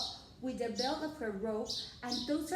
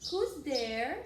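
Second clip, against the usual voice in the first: wolf voice. Acted. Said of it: "said the wolf again".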